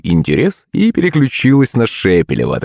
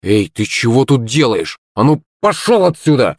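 mild shout; 3 semitones higher than usual. Acted. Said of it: "выкрикнула Юленька".

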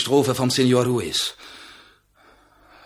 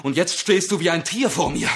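upset pleading; 7 semitones higher than usual. Acted. Narciso pleading with his raging friend to stop, rising to an upset cry.

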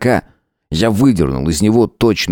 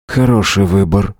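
appraising remark. A narrator's reading. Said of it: "наконец сказал он".

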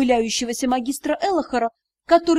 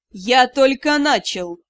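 icy tone; 4 dB louder, slower than usual. Acted. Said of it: "Ледяным тоном ответили".

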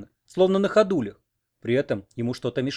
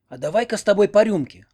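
lively, higher invitation for a drink; perky offer; 7 semitones higher, 5 dB louder than usual. A narrator's reading. Owl waking Oksana with a lively invitation. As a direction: stir her up playfully. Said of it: "задорно предложила".

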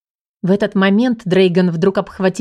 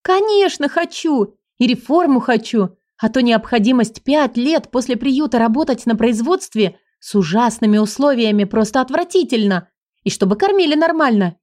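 eager; 3 semitones higher than usual. Acted. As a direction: list every wish in a burst. Heroine eagerly lists wishes.

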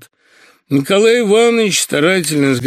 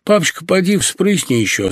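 pleading through shawl; 6 semitones higher than usual. Acted. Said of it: "сказала она, закрывая рот шалью".

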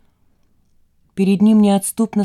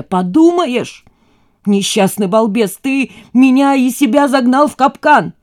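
louder, higher furious rant; furious mother; 5 semitones higher, 6 dB louder than usual. Acted. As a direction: throw his word back at him. Mother furiously repeats his word. (в ярости, громко)

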